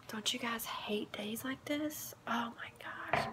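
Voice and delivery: slow, sighing dejection; feeling down. Real, not acted. Drained mother confides in viewers about her bad day, feeling down. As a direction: let it out slowly on a weary breath. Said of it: "I feel so down".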